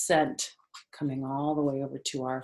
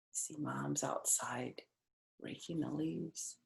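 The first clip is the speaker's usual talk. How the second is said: whisper; 11 dB quieter, slower than usual. Real, not acted. Aside pointing at picture.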